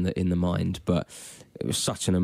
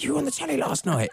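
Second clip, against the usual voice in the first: put-on girly fan voice. Girls quoted in retold encounter.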